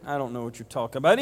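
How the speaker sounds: rushed, brushing it off fast; hasty denial. Acted. Peter hurriedly denying to his accuser, fast. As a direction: get it out quickly to dodge. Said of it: "And Peter said".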